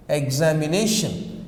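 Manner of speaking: examination with the -na- syllable pushed out; stress on exami-NA-tion. Shown as a demonstration. Teacher pointing out where examination takes its stress, stressed demo. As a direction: hit the na in examination clearly. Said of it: "you must have a stress here".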